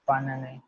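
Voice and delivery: banane said as "ba-nah-neh", each syllable clear; French banane drill. Shown as a demonstration. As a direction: repeat banane carefully, teacher modelling. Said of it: "we will pronounce it as banane".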